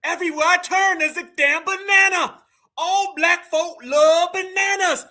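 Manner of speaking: slow, drawn-out mock of his line; mimicking the man's serious banana line. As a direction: play it dead serious and stretched out. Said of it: "He got serious".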